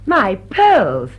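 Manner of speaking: loud, shocked cry; shocked outcry. Acted. Mrs Ebley discovering her pearls, loud and shocked.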